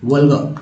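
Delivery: वल्गर ending in an open "ga", no r; silent final r. Shown as a demonstration. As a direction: drop the r at the end of वल्गर. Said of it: "आर का उच्चारण नहीं करना है".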